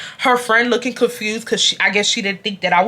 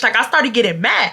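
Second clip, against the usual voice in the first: ordinary delivery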